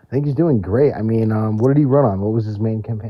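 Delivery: muffled, like through a wall. Real, not acted. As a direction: voice dulled as if underwater. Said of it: "sounds like you're a little muffled".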